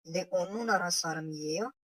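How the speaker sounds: "नारा" rising, the whole phrase sounding like a question; change the tone so it asks. Shown as a demonstration. Teacher repeating the question with a rising tune. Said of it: "लहजे को थोड़ा तब्दील करके पूछना है".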